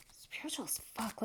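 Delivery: hushed, barely voiced aside; whispered. Real, not acted. Reader naming the card deck to herself, whispered. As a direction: whisper it under your breath.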